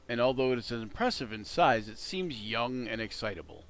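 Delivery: lightly paced descriptive narration; game master scene setting. A narrator's reading. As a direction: set the scene, steady and evocative. Describes the dragon's cavern.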